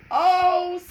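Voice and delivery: high loud gasp of surprise; girl seeing kittens ate fish, surprised. Acted. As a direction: sound startled. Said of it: "said Mary".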